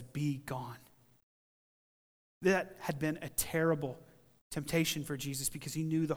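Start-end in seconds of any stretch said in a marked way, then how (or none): 0.0-0.8 low, hushed command; acted rebuke held right down; quiet dismissal. Preacher as Jesus answering the accent of Satan, quiet dismissal.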